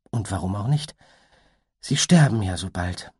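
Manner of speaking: fast, lightly voiced unicorn; a bemused, fond sigh of an explanation; musing unicorn. Unicorn muses aloud, fast and lightly voiced.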